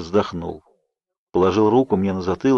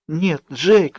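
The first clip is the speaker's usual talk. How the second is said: higher, whimpering denial; 7 semitones higher than usual. A narrator's reading. Bella whimpers to Jacob, fighting tears. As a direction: whimper it, holding back tears. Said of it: "заскулила я".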